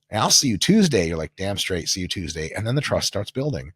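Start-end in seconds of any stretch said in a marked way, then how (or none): 0.1-1.1 lightly voiced client's goodbye; imitated parting promise; keen client. Client's parting words, acted. 1.3-2.5 low, soft confirming reply; understated, confident comeback; assured trainer. Retold or imitated. Trainer's reply to client, acted.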